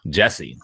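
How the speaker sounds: "Jesse" with an E sound in place of the U; name altered on purpose. Shown as a demonstration. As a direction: say "Jesse" as a pointed renaming. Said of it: "according to Chris Rock".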